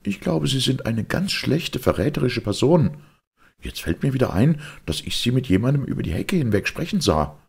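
high-pitched reproachful lady; indignant accusation. Acted. Mistress calls her maid treacherous, indignant and high.

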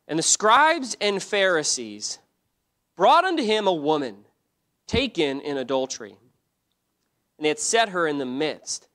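emphatic, measured Bible reading aloud; scripture reading. Real, not acted. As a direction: proclaim the verses to a congregation. Reads scripture aloud to congregation.

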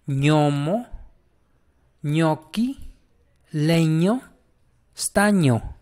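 diseño through staño with ny sound; ñ pronunciation demo. Shown as a demonstration. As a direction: slowly model each word, leaning on the ñ. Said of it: "Seguimos con la ñ, mira".

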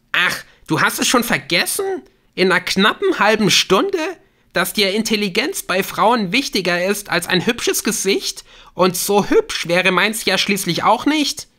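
high, loud, indignant questioning; bitter sarcasm. Acted. Hurt woman confronting her caller, bitterly sarcastic. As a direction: throw his insults back at him. Claire's sarcastic accusation on phone.

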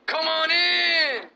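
slow, loud, high drawn-out shout; shouted welcome. Acted. Clip host shouting the surprise reveal, slow and loud. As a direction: bellow it to welcome him in.

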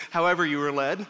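brushing it off with a shrug in the voice; a mild, offhand wave-away of however you were led; dismissive. Retold or imitated. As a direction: say it like it hardly matters. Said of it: "kind of this dismissive".

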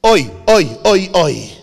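a loud mock kvetching oi, oi; imitated oi sigh. Rabbi imitating his friend's kvetching oi, loud and groaning. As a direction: ham up a Jewish groan of complaint. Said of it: "Mendy Klein gave a little oi".

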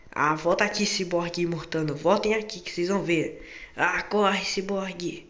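loud playful threat, slowing down; mock angry chase. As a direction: yell after them in mock fury. Chasing friends, threatening.

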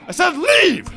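high, loud angry command; angry order. Acted. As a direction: snap it as an order. Nurse orders him out.

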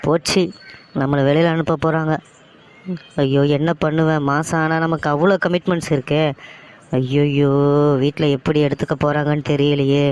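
mildly panicked wail to oneself; panicked lament. Acted. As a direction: lament as the bad news sinks in. Finds own layoff mail, panics. (பதற்றத்துடன் புலம்பல்)

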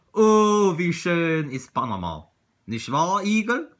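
dreamy hare. Acted. Hare enthusing to his hedgehog about Panama, dreamy hare. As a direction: play a hare won over by a dream.

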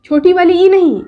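long ई sound; long ई contrasted. Shown as a demonstration. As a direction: stretch the ई, not the short one. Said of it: "ये है छोटी ई और ये है बड़ी ई".

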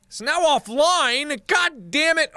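high, drawn-out exasperated cry; frustrated outburst. Real, not acted. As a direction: wail it in frustration. Target went offline, frustrated.

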